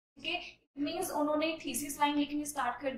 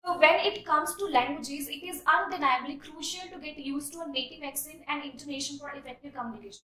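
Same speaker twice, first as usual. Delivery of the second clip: slow, deliberate read-aloud; measured classroom reading; slow essay reading; much slower than usual. Shown as a demonstration. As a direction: read the paragraph out for students. Reads body paragraph aloud.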